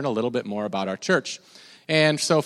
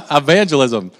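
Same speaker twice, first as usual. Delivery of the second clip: loud fake British accent after a laugh; a British accent badly faked, slightly Jersey; botched British accent; 7 dB louder than usual. Shown as a demonstration. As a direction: attempt "evangelism" in a comic British accent. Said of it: "say it in your best British accent".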